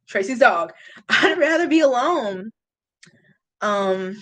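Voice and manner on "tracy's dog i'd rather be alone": giggling through the words; laughing. Real, not acted. Streamer laughing at a viewer's joke about a dog. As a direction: laugh while repeating it.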